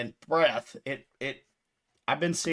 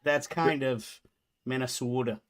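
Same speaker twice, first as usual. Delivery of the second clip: put-on Minnesotan accent. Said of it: "'cause you drag the O's".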